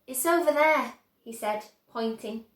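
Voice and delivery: eager, showing the way; Charlie voice. A narrator's reading. Charlie showing Wonka his house, eager.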